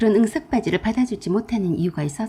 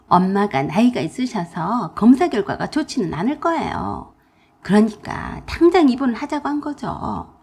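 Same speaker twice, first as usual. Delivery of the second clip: fretful sister-in-law; 3 dB louder than usual. Acted. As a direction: whine that you're stuck. Sister-in-law asks a favour.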